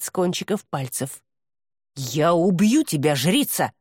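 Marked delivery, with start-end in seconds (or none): none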